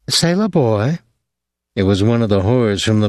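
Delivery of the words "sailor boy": put-on bar girl calling.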